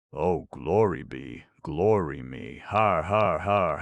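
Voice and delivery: slow gloating then loud har har; triumphant crowing. Acted. Jubilant little wizard crowing in triumph, loud laughing. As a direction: crow over your own cleverness.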